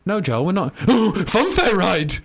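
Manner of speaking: hammed-up excited child. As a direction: squeal like a distracted kid. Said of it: "Honestly, like a child".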